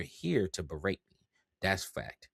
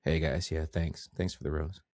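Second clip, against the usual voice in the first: underwhelming live streamer; 2 semitones lower than usual. Acted. Creator imitating a hyped TikToker's dull live, deadpan. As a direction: thank viewers with no hype at all.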